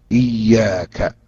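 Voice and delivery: إياك stretched very slowly with the ي doubled; slow teaching model of إياك. Shown as a demonstration. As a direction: draw out إياك and hold the doubled ي. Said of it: "بتشديد الياء".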